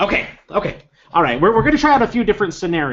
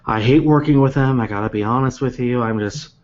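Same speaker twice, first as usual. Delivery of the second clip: a hint of a grumbling, weary coworker; grumpy Beth; 4 semitones lower than usual. GM voicing Beth grumbling about her coworker, lightly sighed. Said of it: "And so Beth goes".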